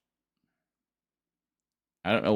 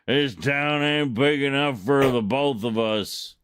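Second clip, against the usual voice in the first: cowboy outlaw; 4 semitones higher than usual. Pretend. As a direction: play the tough Western outlaw. Acting out Outlaw cowboy taunts.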